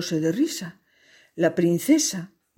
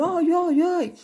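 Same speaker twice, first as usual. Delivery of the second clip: hammy ouch; 11 semitones higher than usual. Acted. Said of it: "caerse y decir".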